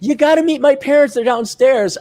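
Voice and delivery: high, pushy retold demand; mock urgent invitation. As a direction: imitate an ex springing news on you. Ex springs parents on him.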